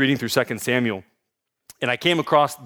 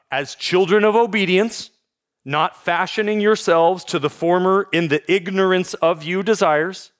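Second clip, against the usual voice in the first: wooden literal reading; 5 semitones higher than usual. Shown as a demonstration. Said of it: "It's gonna sound a little wooden".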